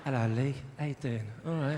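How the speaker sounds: low, menacingly friendly Londoner; low-pitched London accent with veiled threat; friendly-threatening London accent. Acted. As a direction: greet like a London heavy. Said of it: "the more threatening it becomes".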